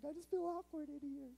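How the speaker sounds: high, put-on voice of an awkward teen girl; shy girlfriend voice. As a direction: play the giggly date who feels out of place. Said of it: "She's like".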